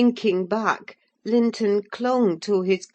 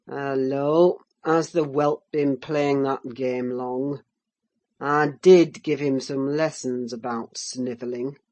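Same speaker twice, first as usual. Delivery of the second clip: low, sneering master of the house; a lightly voiced gruff landowner; Heathcliff voice; 4 semitones lower than usual.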